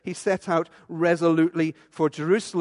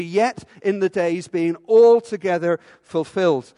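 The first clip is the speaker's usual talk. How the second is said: louder, leaning on "altogether"; emphatic repeat; 7 dB louder than usual. Shown as a demonstration. Preacher repeating the literal Greek with emphasis. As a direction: push "altogether" hard. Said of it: "that's what it would literally be".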